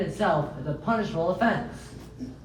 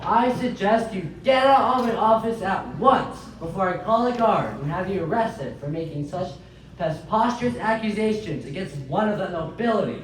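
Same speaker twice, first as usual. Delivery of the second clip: angry. Acted. Magistrate throws out lawyer.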